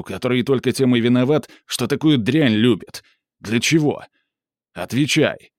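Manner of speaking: angry scolding. Acted. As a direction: tear into her for her lies. Yuri scolds Mura angrily.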